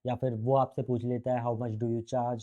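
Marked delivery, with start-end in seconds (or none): 1.4-2.4 very slow, evenly spaced English question. Retold or imitated. Client asking the consultant about the fee, very slow and measured. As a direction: stretch each word out calmly.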